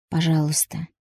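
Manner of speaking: whispered plea; pleading whisper to the husband. A narrator's reading. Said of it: "наконец прошептала я".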